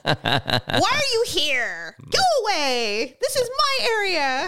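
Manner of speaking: loud, high, drawn-out dramatic cry; mock panicked outburst. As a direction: wail it out in hammed-up alarm. Acting out her panicked reaction to ex.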